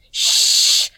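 sharp unvoiced hiss; hissed shush. A narrator's reading. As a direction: hiss to silence him fast. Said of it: "hissed Nobby".

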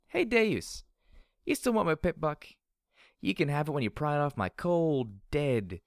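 high, loud, cocky challenge; drunken taunting shout. Acted. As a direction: yell a tipsy dare at your enemy. Drunk heroine taunts her enemy.

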